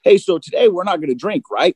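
lightly acted pact, seeking agreement; playing both parts. Man making a pact with his reflection, lightly acted. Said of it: "And I'd be like".

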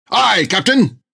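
high, stiff, at-attention voice; eager sailor voice. Acted. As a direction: report like a keen recruit.

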